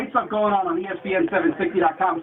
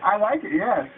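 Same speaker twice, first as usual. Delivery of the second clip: muffled inside a bucket; bucket on head. Real, not acted. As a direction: talk with a bucket over your head. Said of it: "my nose is so big that it's pushing against the bucket".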